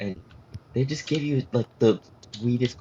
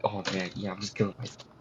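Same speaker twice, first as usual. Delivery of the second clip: softer, lower resigned mumble; deadpan mumble; 4 semitones lower, 6 dB quieter than usual. Retold or imitated. Jumper muttering before leaping off the bridge, soft and low. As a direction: throw it away, flat and soft. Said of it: "you're just like".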